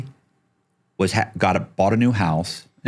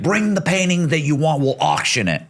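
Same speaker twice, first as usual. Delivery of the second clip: lightly voiced, higher and eager; Danny's offer; 8 semitones higher than usual. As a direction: mimic a friend pushing you to bring it. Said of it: "He's like".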